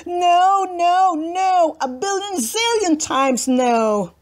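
high, loud protesting no's; a spoiled girl refusing, loud and high; tantrum. Acted. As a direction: scream no at the top of her lungs. Lulu's tantrum.

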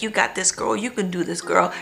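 hushed retold pep talk; self pep talk. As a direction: coach yourself quietly, as if under your breath. Retells pep talk to herself.

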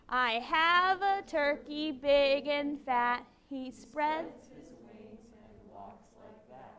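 slow, boring recitation; dull scripture reading. Real, not acted. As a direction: drone it out like scripture. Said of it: "it's like you're reading scripture".

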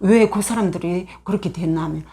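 ordinary talk

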